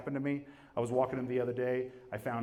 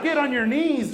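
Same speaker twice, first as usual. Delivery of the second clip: commanding husband; 12 semitones higher, 7 dB louder than usual. Retold or imitated. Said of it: "He's like".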